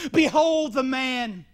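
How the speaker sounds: slow, weighty proclamation as Pilate; Pilate proclaiming. Retold or imitated. Pilate presents Jesus in a slow, solemn call. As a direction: present him slowly to the crowd. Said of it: "Pilate said to him".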